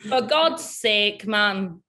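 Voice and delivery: slow, careful copy of a Welsh accent; imitated Welsh accent. Shown as a demonstration. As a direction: copy the Welsh model, stretching it out. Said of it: "Can I do a good Welsh accent?".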